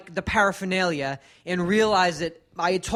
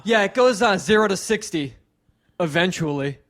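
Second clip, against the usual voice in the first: imitating hack comic. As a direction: push every corny line hoping for a laugh. Imitating warm-up guy's car jokes.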